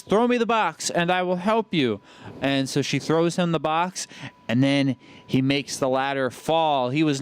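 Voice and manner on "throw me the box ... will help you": mock German accent. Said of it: "blonde man says".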